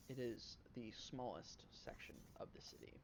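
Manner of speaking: whisper. Acted. GM reveals a secret.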